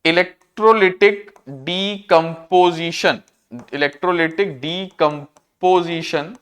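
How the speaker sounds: syllable-by-syllable term, drawn out; slow dictation. Real, not acted. Teacher giving students a new term, slow and segmented. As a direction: sound the term out slowly in separated parts.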